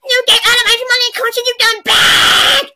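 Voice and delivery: scolding. Acted. Scolding the coach in skit.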